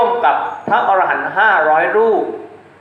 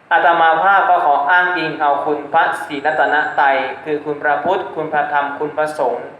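formal blessing; 2 semitones lower than usual. Real, not acted. Monk blesses lay listeners to end the sermon, formal intoned blessing. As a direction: intone the closing blessing steadily, drawing out the final words.

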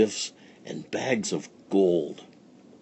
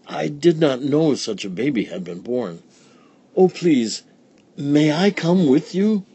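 much higher, eager plea; pleading old woman; 6 semitones higher than usual. Acted. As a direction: beg to come along. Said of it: "said Befana".

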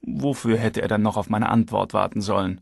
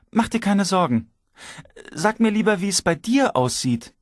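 wife's voice; 9 semitones higher than usual. A narrator's reading. Wife voiced on phone.

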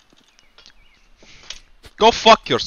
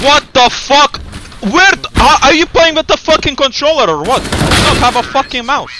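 angry rant; 7 semitones higher, 3 dB louder, faster than usual. Real, not acted. Raging at teammate.

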